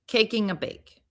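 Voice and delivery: "Caking a bake" with the c and b swapped; jumbled syllables. Shown as a demonstration. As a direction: say "Caking a bake" for baking a cake. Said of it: "focus to say it wrong".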